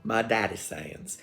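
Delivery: slow, lightly Southern; Southern accent. Retold or imitated. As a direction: slip slowly into a slight Southern accent. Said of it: "I spoke Southern for quite a while".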